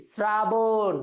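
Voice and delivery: শ্রাবণ drawn out as "sra-bon"; dental s. Shown as a demonstration. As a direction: open শ্রাবণ on s, not sh. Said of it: "তালব্য শ উচ্চারণ হয় না দন্ত স".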